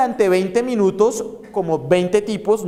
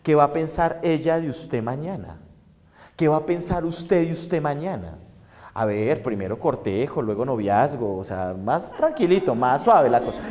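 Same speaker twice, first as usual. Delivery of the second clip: lower, much softer scolding; a quiet, moralizing lecture to yourself; the superego lowering its voice to rein in desire; stern conscience voice; 6 semitones lower, 6 dB quieter than usual. Acted. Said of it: "El super yo es el que te empieza a decir".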